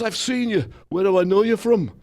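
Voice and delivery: light take on McCartney, puzzled; imitating Paul McCartney. McCartney voiced in retold meeting.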